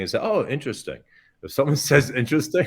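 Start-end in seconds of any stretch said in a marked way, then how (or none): 0.2-1.0 imitating a diner's polite non-compliment, lifted then falling; noncommittal polite quote. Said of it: "The worst compliment you ever get". 2.1-2.7 higher, hedging mock compliment; noncommittal polite quote. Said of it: "it was a horrible meal".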